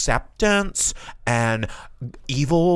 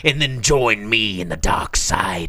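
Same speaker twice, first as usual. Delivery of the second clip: tempting devilish whisper; 4 semitones lower than usual. Acted. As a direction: whisper it like a dark lord luring. Plays tempting Sith lord.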